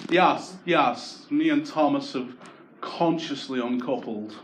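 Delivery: lightly voiced posh woman on the phone, slowing on uncoupled; a hint of a posh girl breaking up, unhurried; posh middle-class girl. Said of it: "the most middle-class breakup".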